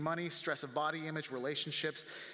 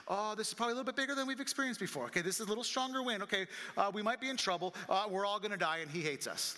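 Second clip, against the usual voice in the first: higher, hurried start growing more doubtful; mounting worry; 4 semitones higher, faster than usual. Acted. Disciples realising the storm is bigger, acted mounting worry. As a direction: talk yourself into mild mock panic. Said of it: "the thought process went from".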